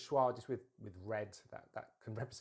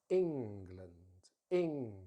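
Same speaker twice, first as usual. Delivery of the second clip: ENGLAND with ENG drawn out and strong; stress on first syllable; 2 semitones lower, 4 dB louder, much slower than usual. Shown as a demonstration. Teacher showing the weak second part, ENG-land stressed first. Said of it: "we stress the first syllable".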